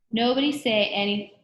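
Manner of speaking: high, loud warning; urgent warning. A narrator's reading. Jenny tries to warn the class, high urgent warning. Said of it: "Jenny tried to warn".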